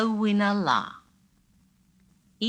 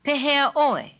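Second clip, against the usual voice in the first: much higher, louder Pehea oi; high, loud query; 9 semitones higher, 5 dB louder than usual. Shown as a demonstration. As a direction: call the question out high. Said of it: "let's try it again".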